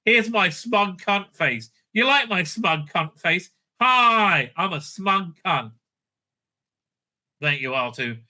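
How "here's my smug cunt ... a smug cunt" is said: smug mockery. Reviewer lampoons the smug senator, slow gloating parody. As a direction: drawl it out like a self-satisfied sneer. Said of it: "And she's like".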